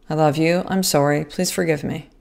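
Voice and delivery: soft and tender, fading at the end; soft tender apology. Retold or imitated. Mother soothing her hurt son, soft and tender. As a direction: say it gently, letting it trail off. Saying phrases to crying son.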